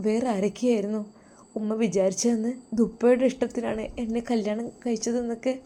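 wife quietly telling her husband what his mother said; hurt wife. Acted. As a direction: pour out the hurt, sinking into a whisper. Wife hurt, complaining softly.

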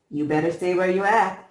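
threatening warning. A narrator's reading. Bully warns approaching brother.

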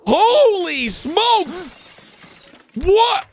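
high, drawn-out disbelief; stunned outcry. Real, not acted. Viewer shocked by the spider attack, high stunned outcry. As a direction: stretch the words in high-pitched shock.

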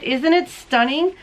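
ordinary delivery

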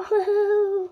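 high, loud giggle; laughter. Real, not acted. Child answering the host about the photo, laughing.

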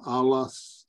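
alas drawn out slowly, unsure of the ending; unsure slow pronunciation. Shown as a demonstration. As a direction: try out alas slowly as a question. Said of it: "you would pronounce that one".

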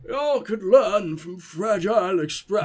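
slow, lightly southern character read; a hint of a southern drawl; attempted southern accent. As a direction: read the message in a tentative southern voice. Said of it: "make him sound a bit more southern".

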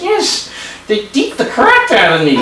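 a wisecracking little dummy; squeaky ventriloquist dummy. Acted. Dummy tells joke.

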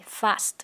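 FAST with s and t both sounded; final s and t. Shown as a demonstration. Teacher models ending sounds, crisp st on FAST. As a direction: say "fast", articulating the closing st. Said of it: "âm s và âm t".

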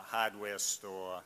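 hardware store with Boston dropped r, slow, like hahdwah stoah. Shown as a demonstration. Listing words locals say, Boston accent. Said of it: "we'll hit you with the word like".

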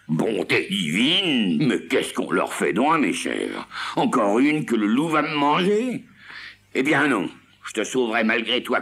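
aigu et fort, lamentation puis résolution; Seguin affolé. Acted. Seguin désespéré puis décidé. (Seguin affolé, aigu et fort)

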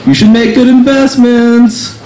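leaving the bar, slow smug jab; smug advice. Retold or imitated. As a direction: deliver it like a smug parting shot. Parting jab at the reality star.

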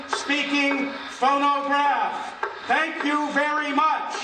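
loud, boomy phonograph playback voice; old gramophone. Acted. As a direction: announce like an old horn phonograph. The phonograph speaks to the audience.

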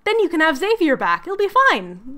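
breezy, lightly acted friendliness; mock friendly. Lucifer coaxing Beth into a deal, mock friendly. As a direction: make the deal sound harmless and chummy. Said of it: "He's so friendly".

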